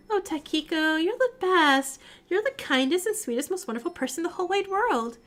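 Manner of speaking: a hint of sweet, overdone gratitude; sugary Maiko. Maiko gushing thanks to Takiko, lightly sugary.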